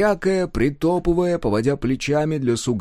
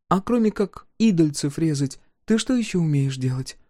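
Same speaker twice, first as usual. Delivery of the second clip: a touch higher, hushed questioning woman; lightly voiced Chernava; 6 semitones higher than usual. Chernava asks at night.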